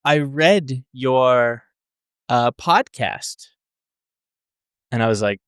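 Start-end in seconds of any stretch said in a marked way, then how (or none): 0.1-3.5 slow, halting Brooklyn grandmother impression; lightly voiced Brooklyn granny, drawn out; Brooklyn grandma. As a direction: imitate a Brooklyn grandma hunting for the word. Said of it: "she's from Brooklyn".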